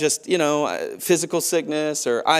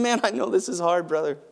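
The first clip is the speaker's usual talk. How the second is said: gentle compassion. Retold or imitated. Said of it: "looking at him saying".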